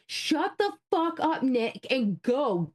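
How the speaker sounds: yelling. Retold or imitated. Host retelling yelling at Nick to go, exasperated high yell. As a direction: chew him out, pitch way up, words stretched. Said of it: "I'm, like, yelling".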